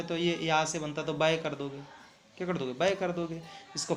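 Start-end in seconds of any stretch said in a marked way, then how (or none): 2.7-2.9 बाय said with a short "ae" ending instead of "aai"; the mistaken बाय, short "bae"; wrong pronunciation. Shown as a demonstration. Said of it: "ऐसे नहीं होगा ना".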